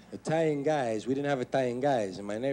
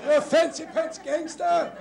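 mocking insult; 5 dB louder, slower than usual. Mock insult shouted.

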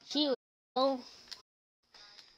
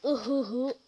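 short hooting "ooh-hoo" laugh; imitated funny laugh; 5 dB quieter than usual. Showing how a friend laughs, imitated laugh. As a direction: mimic a friend's odd hooting giggle. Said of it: "He laughed like this".

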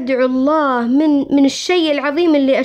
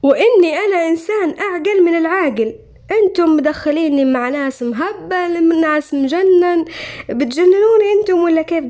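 retold protest, pitched up and slowed; a raised, exasperated plea of sanity; indignant protest; 5 semitones higher than usual. Retelling protest to the doctor. (احتجاج مستنكر بصوت مرتفع)

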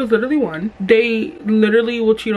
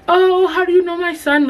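high, sugary mom voice; lightly voiced nosy mom; a hint of sweet mom; 9 semitones higher than usual. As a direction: play the curious mom, lilting up high. Boyfriend's mom asks her.

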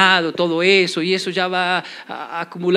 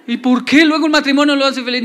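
objeción imaginaria; 6 semitones higher, 7 dB louder than usual. Pretend.

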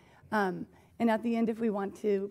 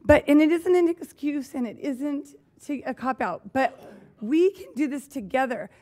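real anger; 3 semitones higher, 6 dB louder than usual. Real, not acted. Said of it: "because I'm angry".

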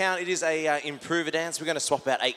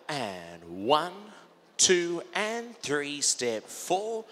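calling dance counts; much slower than usual. Shown as a demonstration. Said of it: "calling counts".

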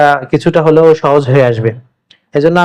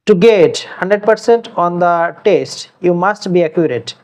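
slow dictation; much slower than usual. Shown as a demonstration. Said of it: "example sentence".

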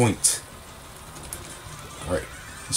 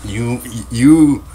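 laughing disbelief; 3 semitones higher, 7 dB louder, much slower than usual. Real, not acted.

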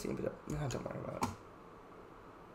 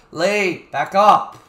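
angry shout; 3 semitones higher, 7 dB louder, much slower than usual. Real, not acted. Ordering Lee to back up.

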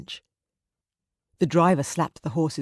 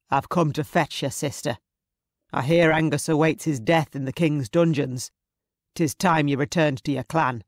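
lightly voiced commanding Scottish villain; a hint of a stern raider; menacing clansman; 3 dB louder than usual. Raider come to fetch his sister, lightly voiced command.

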